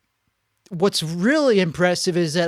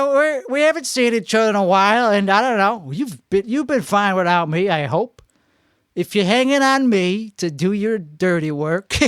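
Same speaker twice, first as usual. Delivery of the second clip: Chicago guy voice. Acted. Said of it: "That's what they do on the I ninety-four".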